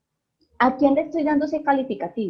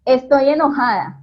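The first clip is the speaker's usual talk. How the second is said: mock angry, no face change; 3 semitones higher, 6 dB louder than usual. Shown as a demonstration. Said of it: "yo no le puedo decir al niño".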